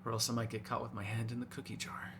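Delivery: low, very soft murmur to prey; barely-voiced predatory coaxing; hushed coaxing. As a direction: lull them softly, intimate and in control. Coaxing prey before a bite.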